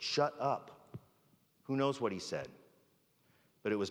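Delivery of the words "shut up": mock cursing. Peter cursing at the girl, mock angry. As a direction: act out a mild, defensive brush-off. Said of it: "he starts cursing at the girl".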